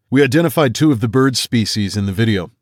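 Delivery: calm expert explaining; a hint of a lecturer; lightly voiced. The speaker explains the video.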